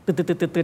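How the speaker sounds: rapid "tut-tut-tut" imitated shots; tennis-ball machine noise. Shown as a demonstration. Teacher mocking overdone rhythm, rapid-fire imitated noise. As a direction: fire off repeated staccato syllables. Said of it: "เหมือนยิงลูกเทนนิส".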